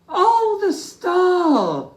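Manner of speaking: high, loud Oh, the star!; excited cry. Acted. Little Bear remembering the star, crying out excitedly. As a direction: gasp it out with sudden joy. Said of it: "cried Little Bear".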